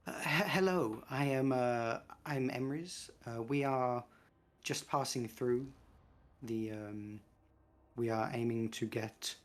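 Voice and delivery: awkward, hesitant introduction with stumbles and pauses; trying to be cool. Acted. Emrys greeting approaching elves, awkwardly trying to be cool. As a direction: stumble through it, feigning casual confidence. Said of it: "does their best to be cool".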